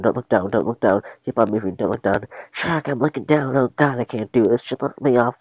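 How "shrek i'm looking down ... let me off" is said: panicky, higher-pitched Donkey; acted panic. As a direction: play Donkey panicking on the bridge. Panicking halfway across the bridge.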